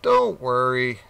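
a mild squeak to fob off the cat; squeaking rat. Acted. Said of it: "squeaked the rat".

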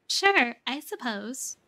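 hesitant creature, drawn out slowly; timid. A narrator's reading. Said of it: "the creature replies timidly".

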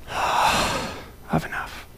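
slow breathy whisper of contentment; softly whispered, slow and at peace; relieved whisper. Pretend. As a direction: whisper it as the weight lifts. Imagined relief at home.

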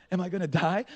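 lightly voiced worried child; imitating a scared son.

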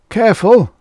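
loud, high-pitched threat; cried warning. A narrator's reading. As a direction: cry out to hold them off. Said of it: "cried Finn".

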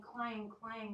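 slow, ringing pot clangs; drawn-out echoing clang, clang. Acted. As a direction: let each clang ring. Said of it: "went the cooking pot".

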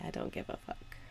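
soft released sigh of the words; breathy exhale. Shown as a demonstration. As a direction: let it slip out on the out-breath. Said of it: "Breathe out and say".

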